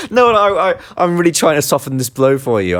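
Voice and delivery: laughing through the words; giggling while protesting. Real, not acted. Laughing while teasing co-host.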